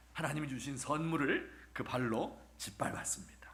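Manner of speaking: ordinary delivery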